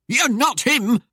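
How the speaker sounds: high-pitched frightened denial; terrified disbelief. A narrator's reading. Man denies the spectre's identity, in terrified disbelief. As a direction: cry it out, refusing to believe. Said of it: "in terrified disbelief".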